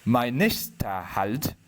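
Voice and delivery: measured poem reading with long pauses between lines; poetry recitation. Acted. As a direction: recite it line by line, unhurried.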